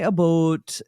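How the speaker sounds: "a boat" for "about", Canadian-style; imitated Canadian "a boat"; mock Canadian pronunciation. Shown as a demonstration. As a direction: say "a boat" with a long, rounded Canadian vowel. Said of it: "we are Canada's neighbors, but we don't say".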